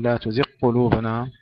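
تزغ قلوبنا run together as tuziqqulubana; wrong merged ghayn. Shown as a demonstration. Tajweed teacher showing the error, merged غ in تزغ. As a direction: swallow the غ of تزغ into a doubled ق. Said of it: "لا نقول".

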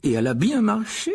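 very interested. Acted. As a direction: ask with keen curiosity. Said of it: "très intéressé". (vivement intéressé)

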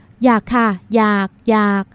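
slow, drawn-out pleading, each อยาก pressed hard; hammed-up pleading, slowed right down; flustered mock eagerness. A narrator's reading. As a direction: overplay a frantic plea, stretching every อยาก. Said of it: "ใส่ลูกเล่นลุกลี้ลุกลน กับจังหวะจะโคนเน้นเสียงแปลน".

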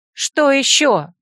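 high, loud, irritated question; drawn-out, exasperated demand; angry. A narrator's reading. Heroine to the boy calling her back, angry. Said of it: "зло спросила я".

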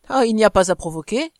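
loud boastful swagger; coarse bravado. Acted. Husband boasting to his wife, coarse bravado. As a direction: brag it coarsely. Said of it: "avec le même accent de forfanterie grossière".

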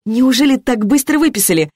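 high, startled question; surprised. A narrator's reading. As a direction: ask in real surprise. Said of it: "удивилась Алена".

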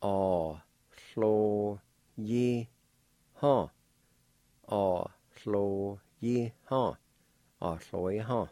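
"A, hlo, yi, ha" each syllable apart; teacher sounding "A, hlo, yi, ha". Shown as a demonstration. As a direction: say "A, hlo, yi, ha" in careful beats. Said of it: "pronounced like this".

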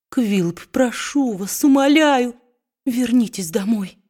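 understated tearful plea from the wife; mild tearful pleading. A narrator's reading. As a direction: beg him to come home, lightly tearful. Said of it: "сквозь слёзы проговорила она".

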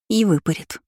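mildly sorrowful addition. A narrator's reading. Lina adding to her twin's dread, mildly sorrowful. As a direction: add it with a touch of woe. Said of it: "горестно добавила Лина".

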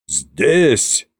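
весомое, протяжное слово царя; объяви решение веско, как царь; громкое объявление. A narrator's reading. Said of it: "громко сказал Кощей". (торжественно и веско)

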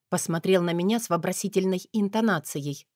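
ordinary delivery

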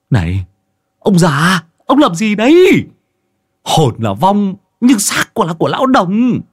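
high, loud protest; alarmed shout. A narrator's reading. Master stopping Môn Phọt's slap, high alarmed shout. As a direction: cry out to stop the old man.

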